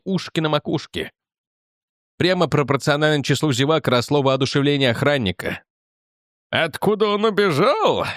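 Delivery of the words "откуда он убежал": slow, grandly theatrical question; theatrical pathos. A narrator's reading. Guard posing a question to gathering onlookers, with theatrical pathos. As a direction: play to the crowd with mock pathos. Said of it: "с театральным пафосом вопросил охранник".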